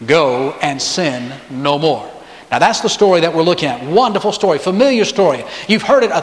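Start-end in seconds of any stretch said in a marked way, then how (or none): 0.1-2.1 like speaking kindly to a frightened woman; tender voice. Retold or imitated. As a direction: lower and slower, tenderly forgiving. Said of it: "in a very tender voice".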